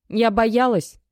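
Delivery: trembling voice. A narrator's reading. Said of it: "с дрожью в голосе".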